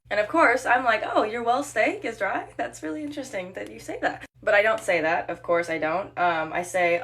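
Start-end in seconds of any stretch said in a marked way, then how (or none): 1.0-4.2 sarcastic. Retold or imitated. Imagined sarcastic reply to customer.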